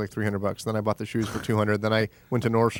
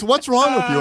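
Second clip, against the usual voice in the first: much higher and louder, exasperated; mock furious yell; 12 semitones higher, 6 dB louder than usual. Angry friend scolding him, high mock yell. Retold angry phone call.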